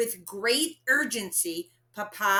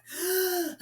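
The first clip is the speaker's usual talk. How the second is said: sharp gasp for breath; quick gasp; 10 semitones higher than usual. A narrator's reading. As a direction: gulp air before the list. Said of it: "took another deep breath".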